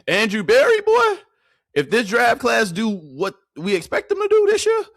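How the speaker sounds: loud, high hype about the GM; hyped shout. Real, not acted. Streamer hyping the GM's draft class, loud and high. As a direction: yell it out, thrilled.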